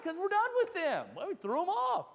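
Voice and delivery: high and loud, fired up; emphatic declaration. Real, not acted. Preacher rallying listeners, excited and loud. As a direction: proclaim it to the congregation.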